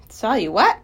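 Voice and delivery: caught-off-guard exclamation; startled cry. Acted. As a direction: blurt it out in puzzlement. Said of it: "he cried".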